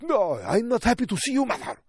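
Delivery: put-on a young man snapping back at his mother; sulky son. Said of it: "And he's like".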